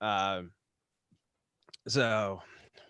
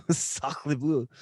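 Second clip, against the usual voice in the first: put-on French accent. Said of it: "French accent".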